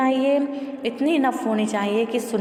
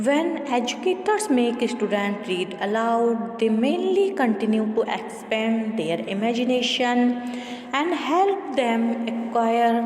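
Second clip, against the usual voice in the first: measured, deliberate textbook read-aloud; steady classroom reading voice; much slower than usual. Acted. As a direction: read the passage out evenly for the class. Reads textbook passage aloud.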